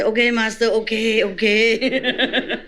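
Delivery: mock obedient student. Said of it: "You say".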